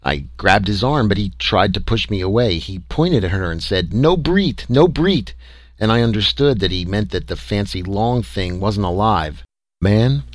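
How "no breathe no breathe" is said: high-pitched alien pidgin; alien creature voice. A narrator's reading. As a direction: warn in a high little alien voice. Alien's broken English, voiced.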